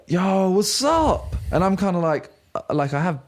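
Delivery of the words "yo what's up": gasp, then high drawn-out hello; long, slow, high-pitched mock greeting; mock excited greeting. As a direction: imitate an over-keen lad greeting someone. Imitates stranger's greeting after a gasp.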